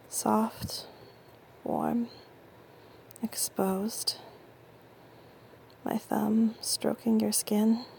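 soft, slow whisper; tender slow whisper. Acted. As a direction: linger on each word in a whisper. Intimate roleplay, caressing partner.

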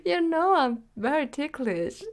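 squealing laughter, high and loud; being tickled. Acted. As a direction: laugh helplessly while protesting. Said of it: "I'm ticklish".

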